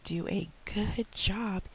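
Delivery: slow, rising sing-song promise; teacher voice for little kids. Shown as a demonstration. Teacher promising a small child a reward, rising sing-song. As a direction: coax a small child, climbing high. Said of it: "for the younger kids".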